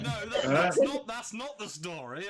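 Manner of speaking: loud insistent correction. Retold or imitated. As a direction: firmly set them straight. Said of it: "He's like".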